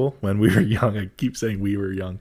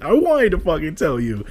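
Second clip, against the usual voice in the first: high, hammed-up frustrated whine; mock whining complaint; 8 semitones higher than usual. Retelling whining to a friend over spoiled news, mock exasperation. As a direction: protest in a high voice, playing up the frustration.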